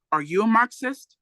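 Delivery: the cop presses harder, raising the voice. Retold or imitated. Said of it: "the pig asked in a louder tone of voice".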